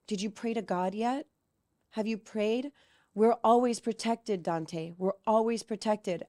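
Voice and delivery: a hint of earnest reassurance, slowing on the comforting words; reassuring big brother. Older son reassures his crying little brother at night, earnest.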